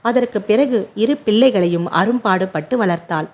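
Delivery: ordinary delivery, nothing marked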